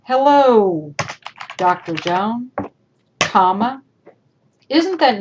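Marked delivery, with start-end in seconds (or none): 0.0-3.8 courteous, carefully voiced greeting; polite greeting. Shown as a demonstration. Teacher showing students a respectful email greeting. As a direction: greet her nicely and properly. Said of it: "What if we even greeted them".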